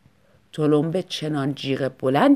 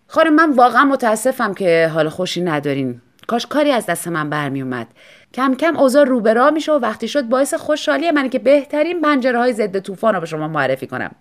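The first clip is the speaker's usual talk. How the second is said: salesman's pitch; 2 semitones higher, 5 dB louder than usual. Acted. Salesman makes his pitch.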